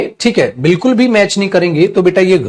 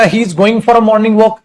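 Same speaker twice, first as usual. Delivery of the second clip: slow dictation; much slower than usual. Shown as a demonstration. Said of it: "अगर मैं ये कहता हूं बेटा".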